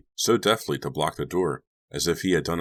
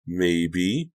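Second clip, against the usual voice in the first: cautious; 3 semitones higher than usual. Acted. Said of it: "Donnie said cautiously".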